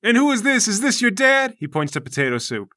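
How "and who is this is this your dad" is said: Obliterator voice. Acted. Obliterator gets worked up.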